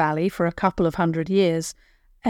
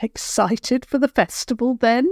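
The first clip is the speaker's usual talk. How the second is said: granny voice; 5 semitones higher than usual. Acted. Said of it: "she said".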